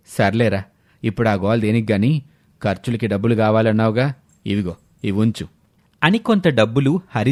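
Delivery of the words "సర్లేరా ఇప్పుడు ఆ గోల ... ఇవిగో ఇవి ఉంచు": dismissive father. Acted. Father ending the debate and giving his son money, low and dismissive. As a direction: lower father voice brushing the topic aside.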